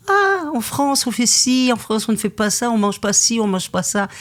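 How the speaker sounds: high, snooty imitation of French diners, big pitch jump at the start; mock the fussy French customer lecturing about France. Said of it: "les pires clients du restaurant, c'était les Français".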